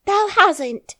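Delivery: shocked high loud cry; stunned Yorkshire shriek; exclaiming. A narrator's reading. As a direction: gasp it out in disbelief. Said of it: "she exclaimed".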